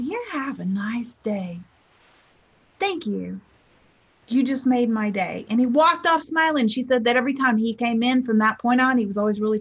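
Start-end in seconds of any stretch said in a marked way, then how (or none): 0.0-5.5 sincere thanks. Retold or imitated. Old customer thanking the teller who cheered him, softly sincere. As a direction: say it gently, as if touched.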